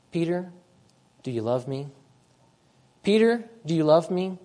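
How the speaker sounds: Jesus asking Peter with quiet tenderness; tender question. Acted. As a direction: ask it gently, as a loving friend. Jesus questions Peter after denial.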